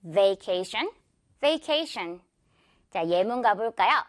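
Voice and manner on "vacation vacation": "Vacation" opening with a gliding vey; careful v and ey in "vacation"; vowel near "vey". Shown as a demonstration. Teacher refining the first vowel, careful demo. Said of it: "they에 가깝게 발음해보세요".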